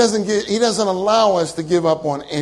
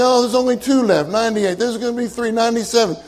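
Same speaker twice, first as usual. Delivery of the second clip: mock dismissive; 4 semitones higher, faster than usual. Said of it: "And you're gonna say".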